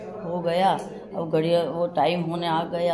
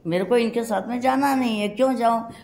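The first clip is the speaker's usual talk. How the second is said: higher-pitched, indignant protest; a touch of remembered fury, raised pitch; retold anger; 5 semitones higher, 3 dB louder than usual. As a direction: push back indignantly, half-acting the old anger. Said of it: "तो मेरे को आया गुस्सा".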